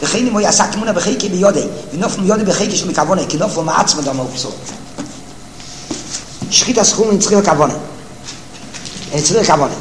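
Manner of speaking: racing through the Hebrew source text; fast singsong yeshiva reading; rapid text reading. Acted. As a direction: rattle off the quote quickly, like a study partner.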